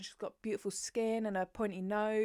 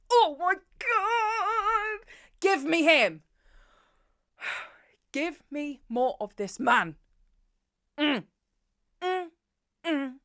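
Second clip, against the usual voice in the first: much higher, louder drawn-out squeal; swooning excitement; 8 semitones higher, 8 dB louder, slower than usual. Real, not acted. Fangirling to viewers over Dimitri, excited squealing. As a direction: squeal with longing for the hero.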